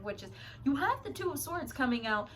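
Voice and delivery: stumbling over the words; stuttering. Real, not acted. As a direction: trip over the phrase. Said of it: "Sorry, I'm stuttering".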